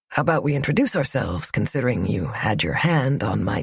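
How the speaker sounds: teasing Braden voice. Acted. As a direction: tease her gently, almost under the breath.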